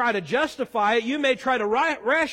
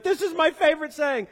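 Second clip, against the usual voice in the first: mock excited yell; 5 semitones higher than usual. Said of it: "like, yelling it".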